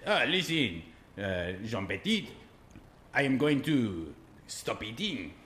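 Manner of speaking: slow, solemn put-on French accent; mock French accent. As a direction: announce the strike in a mock French voice. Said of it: "I'll tell it in his voice".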